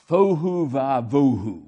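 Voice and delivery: slow, low and resonant; deep voice. Shown as a demonstration. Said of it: "say it in the deepest voice you can".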